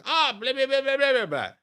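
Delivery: high, loud mock babble; mock gibberish. Drill sergeant acting a local approaching, high mock babble. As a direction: ham up the intruder's babbling.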